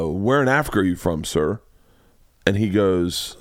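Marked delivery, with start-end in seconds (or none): 0.0-1.6 low-pitched, careful question to a stranger; polite inquiry. Retold or imitated. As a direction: ask politely, voice dropped low.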